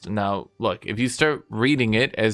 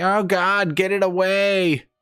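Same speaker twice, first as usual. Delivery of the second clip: high, slow, horrified recoil, "away" stretched long; 9 semitones higher than usual. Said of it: "and you're like".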